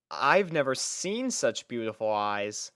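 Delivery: ordinary delivery, nothing marked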